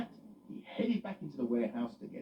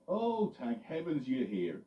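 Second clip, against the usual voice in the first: relieved farmer; slower than usual. Acted. Farmer Kelly voiced.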